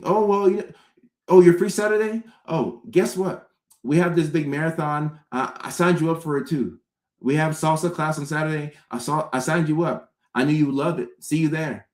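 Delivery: high, sugary voice of a meddling friend; overbearing friend. Retold or imitated. Friend announcing she signed you up for salsa class, high and sugary. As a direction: sing it sweetly as if doing you a favour.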